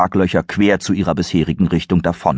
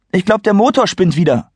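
higher, worried call; alarmed; 14 semitones higher, 4 dB louder than usual. Acted. Serenity worriedly calls out about the engine.

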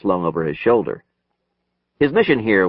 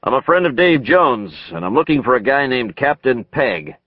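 raised, higher calling voice; yelling through a door; 4 semitones higher than usual. Acted. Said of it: "Hunter yelled out".

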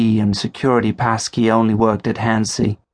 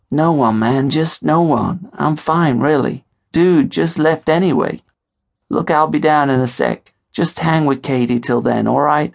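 a touch higher, hurried reassurance; lightly voiced friend; 6 semitones higher than usual. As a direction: brush it off. Leo voiced on phone.

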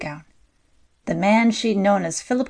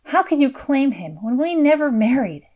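retort; 6 semitones higher, 3 dB louder than usual. A narrator's reading. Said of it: "Madeline retorted".

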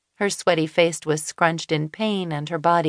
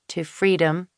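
plain reading voice

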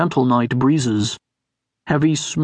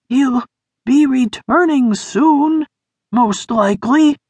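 Sniff voice; 10 semitones higher than usual. A narrator's reading. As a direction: draw out the warning in a thin high voice.

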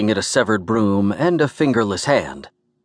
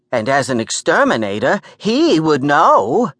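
insistent New York woman; 6 semitones higher, 3 dB louder than usual. Acted. Gert finishing her argument to Morty, insistent New York voice. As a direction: make the point pitched up, stretching the final words.

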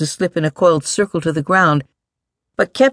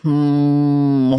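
muttering creature. A narrator's reading. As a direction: mutter a long hmm to yourself. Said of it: "The voice muttered".

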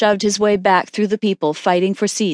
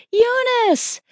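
scream. A narrator's reading. Mother screams for her daughter as she falls, terrified. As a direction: cry out the name in terror, pitched high. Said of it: "and she screamed".

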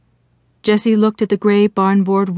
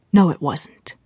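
mildly disgusted contradiction; 3 semitones lower, slower than usual. Acted. Ruth's voice rejecting Jessie's excuse, disgusted. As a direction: dismiss a feeble excuse. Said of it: "She sounded disgusted at this half-assed effort".

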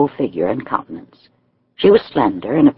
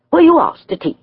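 a higher, lightly voiced demand; 4 dB louder than usual. A narrator's reading. Young lady questions the uninvited guest, mild demand. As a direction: press him for an answer, mildly. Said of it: "she demanded".

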